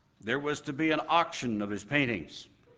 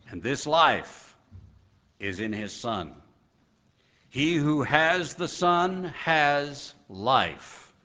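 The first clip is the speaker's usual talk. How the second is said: scripture reading. Acted. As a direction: proclaim the verses with weight. Reads a Bible passage.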